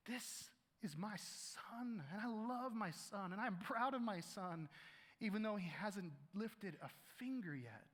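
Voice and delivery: gentle fatherly blessing; tender fatherly voice. Acted. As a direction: speak it like a loving father blessing his son. God voiced blessing his son.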